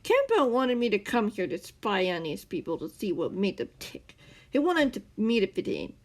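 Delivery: loud furious rant. A narrator's reading. The man ranting at Scar about his spy mission, loud. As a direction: pour out the grievance, building. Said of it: "the man ranted".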